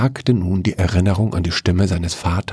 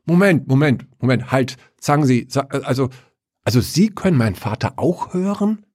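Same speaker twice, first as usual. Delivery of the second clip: astonished; 6 semitones higher than usual. Acted. Paul excitedly interrupts.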